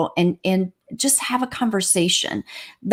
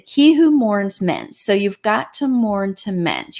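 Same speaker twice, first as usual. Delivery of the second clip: drawn out, leaning on each word; slow, emphatic maxim; slower than usual. Shown as a demonstration. Counselor driving home her saying to the grieving, slow and emphatic. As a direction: spell out the lesson slowly for them to keep.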